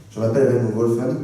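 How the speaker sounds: quick standard French, rising at the end; standard French accent. Shown as a demonstration. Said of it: "with the French accent is".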